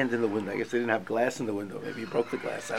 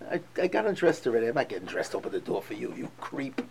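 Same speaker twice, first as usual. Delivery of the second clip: mock disgusted scorn; 2 semitones lower, 6 dB quieter, faster than usual. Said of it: "the most disgusting tone".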